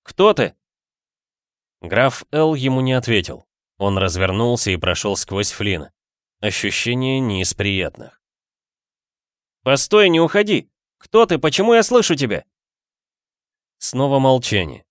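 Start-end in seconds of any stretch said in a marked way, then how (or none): 0.0-0.5 higher, louder call. A narrator's reading. Ghost calling out to the count. 9.6-12.5 high, loud shout, fast at the end; urgent shout. A narrator's reading. Ghost shouting after the count walking away.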